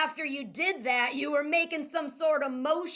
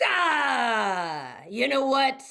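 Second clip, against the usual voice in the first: angry cop shout; 4 dB louder, much slower than usual. Pretend. Cop interrogation outburst.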